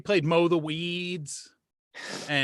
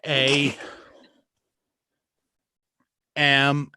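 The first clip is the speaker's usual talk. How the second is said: imitating a speller; 4 dB louder than usual. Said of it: "the way they spelt the word".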